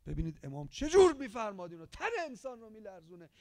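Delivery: ordinary talk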